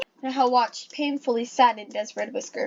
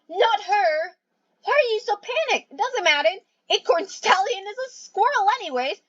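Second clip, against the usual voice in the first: frantic pleading; 10 semitones higher than usual. Acted.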